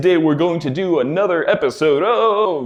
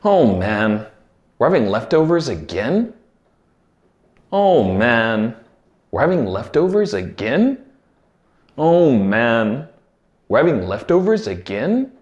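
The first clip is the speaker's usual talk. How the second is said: disappointed groan; 3 semitones lower than usual. Shown as a demonstration. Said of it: "I'm going to say the words three times".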